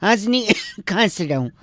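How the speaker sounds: laughing through a denial; stifled laughter. Real, not acted. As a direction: choke back giggles while denying them. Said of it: "हंस क्यों रहा है भाई?".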